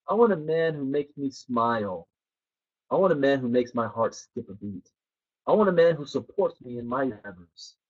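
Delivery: soft and quiet, savoring each wish; dreamy wishing. Acted. Woman telling the therapist her wishes, softly dreamy. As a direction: dream aloud, gently, as if picturing him.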